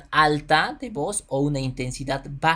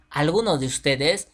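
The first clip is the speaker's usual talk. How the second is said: louder demo; 7 dB louder than usual. Shown as a demonstration. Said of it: "Va a gritar".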